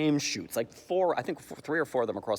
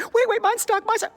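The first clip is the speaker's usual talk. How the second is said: very high, loud frantic call; mock flustered yell; panicking British officer; 10 dB louder than usual. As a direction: cry out in comic panic. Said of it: "change the voiceover to have the last one".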